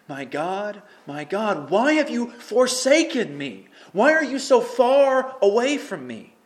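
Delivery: loud, high, slow anguished plea; anguished cry. Acted. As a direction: cry out to God from the dark. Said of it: "this is a dark place to be".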